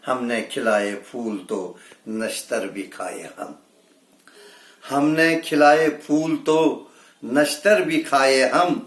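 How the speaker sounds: measured Urdu verse delivery; mushaira-style recital; poetry recitation. Acted. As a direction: recite it as a ghazal line. Recites and repeats a couplet.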